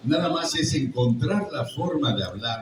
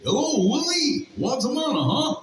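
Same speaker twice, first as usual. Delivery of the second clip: imitating the English Alf voice for fans; original English Alf; 14 semitones higher than usual. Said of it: "No sé si han visto Alf en inglés, que dice".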